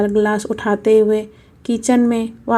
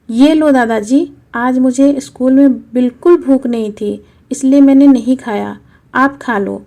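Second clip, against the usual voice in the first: put-on lightly raised boy's voice, upset; a hint of a hurt little boy asking why; little boy questioning grandpa; young grandson; 2 semitones higher, 5 dB louder than usual. Child grandson voice.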